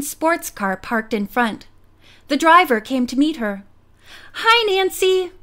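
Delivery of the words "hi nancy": higher, cheerful hello; grinning greeting. A narrator's reading. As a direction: greet her through a grin. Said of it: "Ned grinned".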